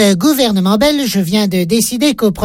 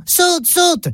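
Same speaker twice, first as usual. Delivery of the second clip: urging call; 8 semitones higher than usual. Acted. Housewife urging child to jump.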